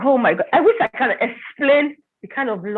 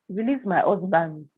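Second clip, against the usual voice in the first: retold bewildered question, softer and slow; puzzled echo; 2 semitones lower, 4 dB quieter, slower than usual. Wife repeating the prophet's demand back, puzzled. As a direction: echo it slowly in mild disbelief.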